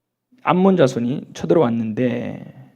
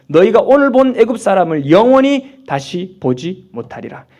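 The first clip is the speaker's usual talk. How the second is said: loud, slow proclamation dropping at the close; preacher declaiming scripture; 3 semitones higher, 9 dB louder than usual. Acted. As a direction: proclaim it as Moses to the people. Declaims Moses' words from scripture. (성경을 힘차게 선포하듯)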